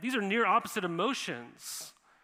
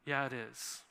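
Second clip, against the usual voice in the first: gentle agreement; 6 semitones lower, 5 dB quieter than usual. Retold or imitated. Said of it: "he would shake his head and go".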